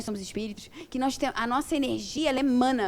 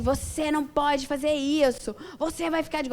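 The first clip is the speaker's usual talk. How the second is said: mock authoritarian; 2 semitones higher than usual. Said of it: "olha eu sendo autoritária".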